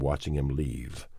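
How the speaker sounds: ordinary delivery, nothing marked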